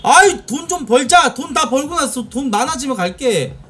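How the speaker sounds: usual speaking voice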